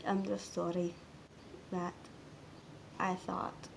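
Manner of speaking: slow, halting, soft confession; subdued regret. Real, not acted. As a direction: confess it quietly, with long pauses. Confessing regret over lost closeness.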